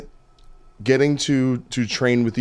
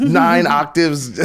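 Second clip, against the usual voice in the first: mock-hyped; 4 semitones higher, 5 dB louder, much slower than usual. Real, not acted. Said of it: "I don't have nine octaves".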